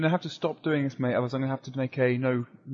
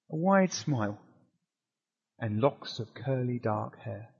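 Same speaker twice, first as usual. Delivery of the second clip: slow, measured descriptive narration; game master scene setting. Acted. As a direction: paint the store for the players at an unhurried pace. GM describes the store.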